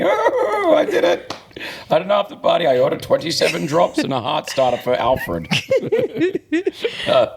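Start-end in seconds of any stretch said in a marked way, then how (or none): 0.0-5.5 mock boasting.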